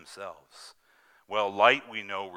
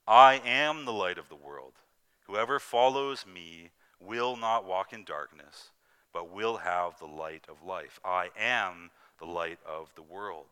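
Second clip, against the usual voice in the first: louder, slower proclaiming read; lightly voiced Jesus, solemn and sure; the preacher reading Jesus's words to the congregation, solemn; quoting Jesus; 7 dB louder than usual. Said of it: "we can see Jesus saying".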